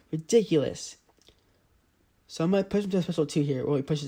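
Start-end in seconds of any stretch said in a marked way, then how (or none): 0.1-1.0 whispered frustrated aside; exasperated whisper to yourself; muttered aside. Real, not acted. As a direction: breathe it out under your breath in disbelief. Frustrated at defensive opponent.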